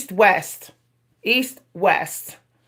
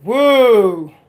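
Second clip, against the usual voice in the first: puzzled woo; 3 dB louder than usual. Retold or imitated. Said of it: "So if I spoke like that".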